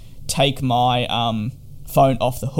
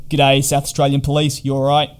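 breezy, louder imitation of a cop's quick check-in; mock cop check-in; 6 dB louder than usual. Mimicking the police officer's call to a quarantined guest, breezy and louder. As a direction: rattle it off like a cop ticking a box.

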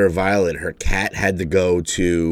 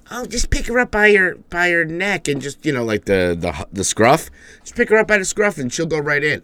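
higher mock voice of the family giving advice; mocking ex and daughter; 6 semitones higher than usual. Retelling the cat advice from ex and daughter, higher mock voice. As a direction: lightly parody their easy advice, pitched up. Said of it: "both of them were like".

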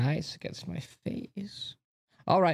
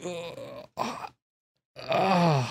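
stretching groan; 2 semitones higher than usual. Acted. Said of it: "I need to stretch first".

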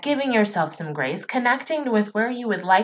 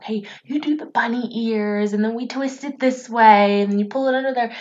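nurturing parent; 3 semitones higher than usual. Retold or imitated. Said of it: "Versus nurturing that child".

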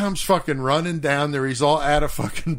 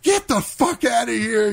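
yelling; 11 semitones higher than usual. Retold or imitated. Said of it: "yelling at him".

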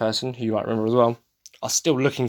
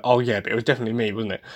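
joking sore loser; much faster than usual. Retold or imitated. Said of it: "Like, as a joke".

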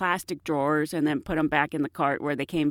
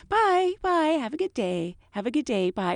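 singsong flight attendant goodbye; 5 semitones higher than usual. Retold or imitated. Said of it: "So I'm saying".

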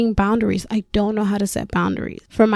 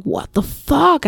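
slow, higher-pitched retold shock; imitated shock; 6 semitones higher, slower than usual. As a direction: draw it out like stunned friends. Friends' shocked reaction, retold.

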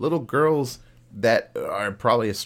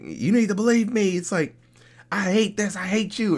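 higher, bratty mock meltdown; mock tantrum; 8 semitones higher than usual. Spoiled girl yelling at Santa, mock tantrum. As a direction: play a spoiled kid throwing a fit, half-hearted. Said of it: "Princess freaks the fuck out".

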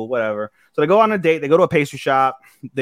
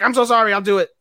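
high-pitched, hasty apology; mock apologetic; 9 semitones higher, 3 dB louder, faster than usual. Kelvin giving in to the guild master, panicky mock apology. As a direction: blurt it pitched up, caving in at once.

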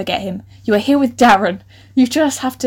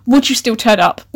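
laughing; 4 dB louder than usual. Real, not acted. Amused question to audience.

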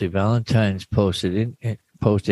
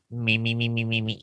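vocal warm-up; 4 dB quieter than usual. Real, not acted. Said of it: "if you read a little louder".

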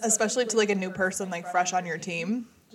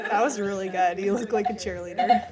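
laughing; 3 dB louder than usual. Real, not acted. Laughing after move.

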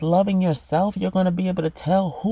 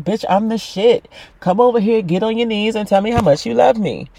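brash rapper swagger, pitched up; raunchy female rapper; 4 semitones higher, 5 dB louder than usual. Acted. Female rapper demanding love on your knees, brash. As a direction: talk big like a raunchy rapper. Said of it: "'cause they talk like this".

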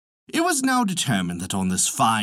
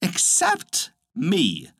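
drawn-out, higher little-bird cry; little bird's scream; 5 semitones higher, much slower than usual. A narrator's reading. Little fellow without a name interrupting, mild piping scream. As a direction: pipe it up slowly, mock scream without real volume. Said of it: "screamed the little fellow".

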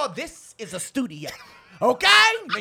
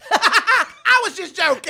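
laughing, slow; 7 semitones higher, 9 dB louder, slower than usual. Acted. Guest repeats the phrase playfully.

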